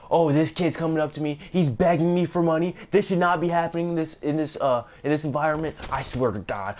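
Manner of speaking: loud, high ranting customer; impersonating the angry man. Retold or imitated. Angry man ranting at mall security, high loud impression. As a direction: rant at security like an offended regular. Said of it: "that other guy's voice that I was doing the impersonation of, spot on".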